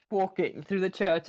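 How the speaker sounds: ordinary delivery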